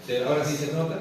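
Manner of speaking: ordinary talk, nothing marked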